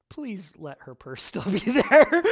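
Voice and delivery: slow prayer breaking into a laugh; half-laughing plea to the Lord. Retold or imitated. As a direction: plead with God through a chuckle. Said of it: "I'm immediately like, "Lord".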